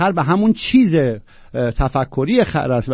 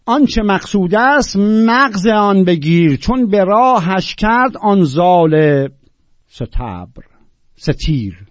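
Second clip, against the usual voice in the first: loud, drawn-out verse declamation; measured, emphatic classical Persian recital; poetry recitation; 3 semitones higher, 5 dB louder, slower than usual. Acted. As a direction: declaim the couplet slowly, stretching the key words.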